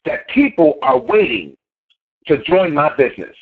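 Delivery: slow, low and dead serious; deep incantation. Shown as a demonstration. Speaker demonstrates affirming his business, slow low growl. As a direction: growl it out like a mad dog, slowly. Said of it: "when I say it, I mean it".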